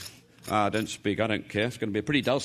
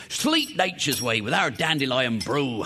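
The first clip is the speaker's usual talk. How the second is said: slow, lightly voiced ad slogan; mock advert voice; slower than usual. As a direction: pitch it like a radio ad. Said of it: "I've marketed it".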